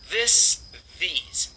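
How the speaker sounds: THIS and THESE begun with a voiced TH; TH sound. Shown as a demonstration. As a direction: put the tongue between the teeth for THIS and THESE. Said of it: "É o som de T H".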